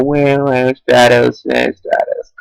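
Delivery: drawn-out, fading fake whimper; mock crying. Player mourning Stratos being too OP, mock crying. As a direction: pretend to cry, slowly and weakly. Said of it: "so we have to cry".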